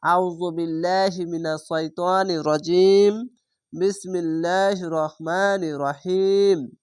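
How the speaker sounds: measured Quran recitation, slow; teacher reciting for the class to follow. Shown as a demonstration. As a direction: recite the opening formula slowly and evenly. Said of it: "প্রথমে বলবেন".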